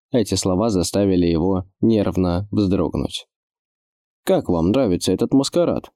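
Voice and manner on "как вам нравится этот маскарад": confiding. Acted. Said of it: "доверительно поинтересовался Пуль".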